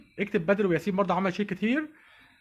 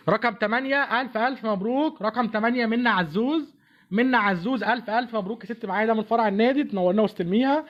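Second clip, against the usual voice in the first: booming prize announcer; 4 semitones higher than usual. Acted. Announcing raffle winner live.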